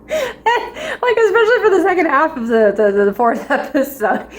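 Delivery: giggly, words riding on laughter; laughing. Real, not acted. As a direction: talk through a laugh, high-pitched. Laughing while recalling the episode.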